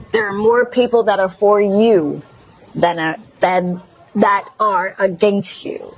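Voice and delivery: a light Mississippi twang, lightly put on. Shown as a demonstration. Host repeating encouragement to viewers in a light Mississippi twang. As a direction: lean a touch into a Mississippi twang. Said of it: "in my Mississippi twang".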